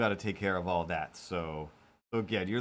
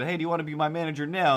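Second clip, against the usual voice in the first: eager asking; 5 semitones higher, 3 dB louder, much faster than usual. Retold or imitated. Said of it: "but if I said".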